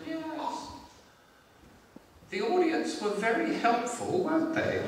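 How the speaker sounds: high, slow, measured royal voice; the Queen. Acted. Monarch commenting to a comedian on his gig, high slow voice. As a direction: deliver polite faint praise high and slowly. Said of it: "this was her opening line".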